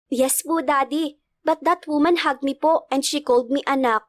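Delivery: lightly voiced child; a hint of a boy reporting; little boy. Boy telling father about the woman, lightly childlike.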